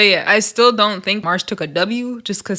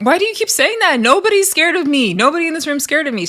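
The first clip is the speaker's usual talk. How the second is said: retold challenge; 6 semitones higher, faster than usual. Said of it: "Tasiki's like".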